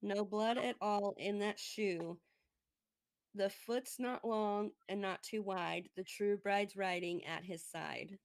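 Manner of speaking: slow, measured storybook verse; storybook reading. Acted. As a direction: read it like a fairy-tale rhyme. Reads fairy tale verse slowly.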